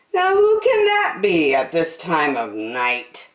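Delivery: puzzled park keeper voice; Percy wondering. Acted. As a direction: wonder aloud, a touch puzzled. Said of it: "thought Percy".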